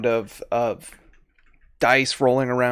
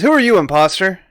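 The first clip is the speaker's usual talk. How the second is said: lightly voiced suspicious guard, raised pitch; challenging guard; 5 semitones higher, 4 dB louder, faster than usual. Game master as gambler to newcomer, lightly voiced challenge. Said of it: "the first guy says".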